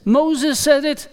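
a preacher ringing out the name; emphatic proclamation. Acted. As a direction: announce Moses with weight. Jesus contrasts Moses emphatically.

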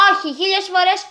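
lightly voiced kids answering back; boys' shout. A narrator's reading. Boys laughing refuse the girl, mock defiant. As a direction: toss it back at her cheekily. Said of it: "φώναξαν και τα τρία αγόρια".

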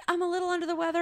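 mock sick excuse.

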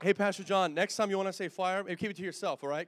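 loud, teasing jab at the pastor; mock scolding shout from the pulpit; joking call-out. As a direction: call him out loudly, all in fun. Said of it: "hello, I'm just joking".

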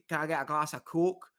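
Coke said the Scottish way, like a hard drink. Shown as a demonstration. A Scot showing how his Coke sounds, Scottish vowel. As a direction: order a Coke in broad Scottish. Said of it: "When I say".

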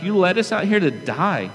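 lightly acted grievance; mock complaint. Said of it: "and they complain".

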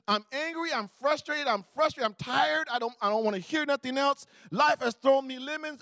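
mock worked-up complaint; acted frustration. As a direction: play a touch of angry, tired exasperation.

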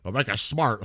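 hammed-up grandpa yell; yelling grandpa imitation. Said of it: "he used to always yell at me and be like".

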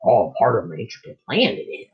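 lightly voiced Yoda-like line; a hint of Yoda, words turned around; Yoda-ish twist. Host mock-quotes the plan line, lightly Yoda-ish. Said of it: "I can't do the other voice".

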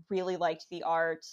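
ordinary delivery

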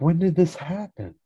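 high-pitched startled question; mock shock. Guest to the Drake about the breakup, mock shock. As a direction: imitate being thrown by bad news.

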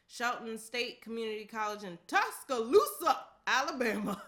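Tuscaloosa called out loud, stretched and proud; proud loud announcing. Real, not acted. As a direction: belt out Tuscaloosa like a game announcer. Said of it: "Why you say it like that?".

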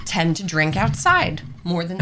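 microphone knocked mid-sentence; mic bump. Real, not acted. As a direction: thump on the mic. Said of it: "I keep hitting the microphone".

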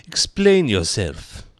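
slow, loud stern command; stern demand. A narrator's reading. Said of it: "said the caterpillar sternly".

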